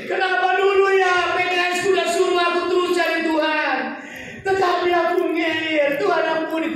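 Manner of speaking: desperate cry. Acted. Sinner crying out to God at the closed door, pleading shout. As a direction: cry out to God in regret, too late.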